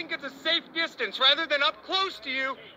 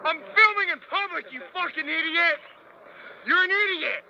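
angry shouting. Real, not acted. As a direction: shout at the officers in outrage. Arrest, yelling at officers.

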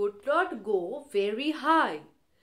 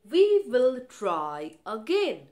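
a louder, eager call to try once more; eager cheer; 5 dB louder than usual. Acted. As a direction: cheer the kite on, a little louder. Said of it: "Bobby said".

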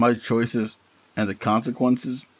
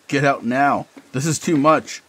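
urgent shout; 4 semitones higher, 3 dB louder than usual. Acted. Panicked inner voice shouts.

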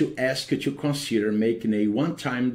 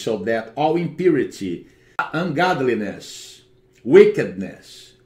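praying. Acted. Deliverance prayer over the home.

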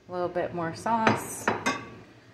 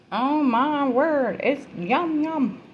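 delighted; 9 semitones higher, slower than usual. Real, not acted. Tasting the finished dish.

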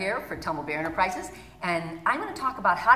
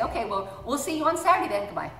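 falling goodbye; 5 semitones higher, faster than usual. Retold or imitated. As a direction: let the goodbye sink down flat. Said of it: "her goodbye is, like, way down here".

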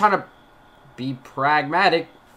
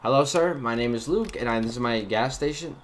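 lightly put-on customer service greeting; a touch of practiced shop-clerk politeness. Shown as a demonstration. Clerk practicing a greeting for customers, customer service voice. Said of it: "I need my customer service voice".

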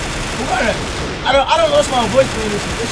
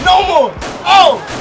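loud, raised-pitch outburst; combat shout; 5 semitones higher, 4 dB louder, much slower than usual. Real, not acted. Gamer in a gunfight, loud high shout. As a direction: call it out forcefully.

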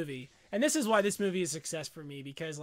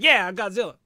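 mock cheer; 2 semitones higher, 8 dB louder than usual. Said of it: "I'd be like".

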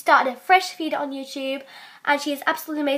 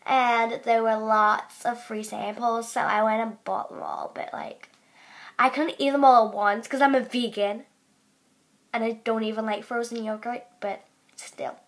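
put-on American accent; 3 semitones lower than usual.

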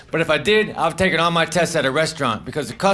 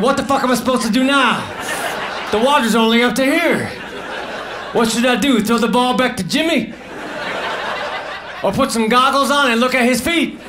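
bored pool actor; 5 semitones higher than usual. Pretend. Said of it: "the actors would have said".

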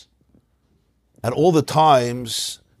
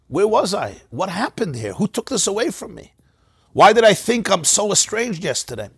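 wondering outcry; 6 semitones higher than usual. Retold or imitated. Voicing awakened soul.

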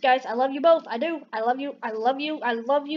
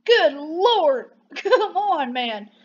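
imitated straight guys; 2 semitones higher, 4 dB louder, much slower than usual. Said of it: "Straight guys are even like".

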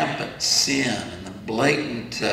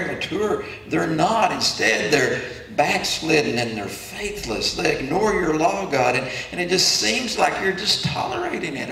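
mounting, higher-pitched questioning; pleading complaint; 3 semitones higher than usual. Acted. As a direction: build from puzzled to pleading. Voices prophet's complaint to God.

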